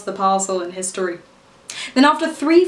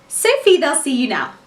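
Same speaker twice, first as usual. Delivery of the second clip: receptionist calling out; 4 semitones higher than usual. Acted. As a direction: summon the next interviewee by name. Receptionist calls in the interviewee.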